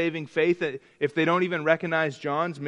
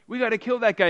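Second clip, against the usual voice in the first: higher, louder indignant outburst; angry David; 7 semitones higher, 4 dB louder, faster than usual. Retold or imitated. Preacher voicing King David's indignant outburst, mock angry. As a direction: let David boil over at the rich man. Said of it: "He gets angry".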